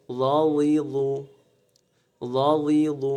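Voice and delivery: ল and লাযিযু with a soft, thick voiced th; soft but thick. Shown as a demonstration. Teacher drilling the letter za, soft but heavy sound. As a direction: keep লাযিযু gentle yet full, as zha-zhi-zhu. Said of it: "নরম হলেও মোটা".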